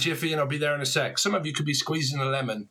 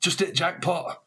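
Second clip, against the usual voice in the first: a cheeky Manchester lad calling out; mock Manchester greeting; Manc accent; 3 semitones higher than usual. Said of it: "talk a bit like that".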